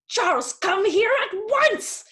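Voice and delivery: high, loud call across the park; sharp summons. Acted. Mother summoning her son across the park, loud. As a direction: call him back at once, sharply. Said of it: "I said".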